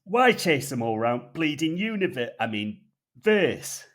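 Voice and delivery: hammed-up North Yorkshire grumble; gruff North Yorkshire. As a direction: bark it out in a rough Yorkshire accent. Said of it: "in his gruff North Yorkshire tone".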